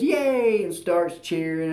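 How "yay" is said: a high, bright little yay; mock cheer. Mother-in-law cheering her team's touchdown, mock cheer. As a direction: cheer like a happy grandma fan. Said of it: "Blanche goes".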